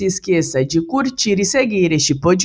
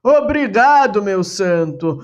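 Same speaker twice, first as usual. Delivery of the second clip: astonished; 3 semitones higher than usual. Acted. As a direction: gasp out the thanks in wonder. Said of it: "num assombro, exclama".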